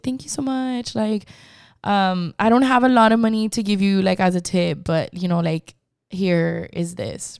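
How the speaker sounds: put-on grateful old lady. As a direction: offer a small tip shyly, sweetly. Old lady offering tip.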